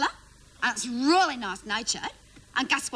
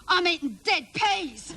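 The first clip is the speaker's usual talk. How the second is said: high, slow mock wail; hammed-up tearful little cousin; imitated toddler crying; 4 semitones higher, slower than usual. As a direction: whine it out like a tearful three-year-old. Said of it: "She bursts out crying".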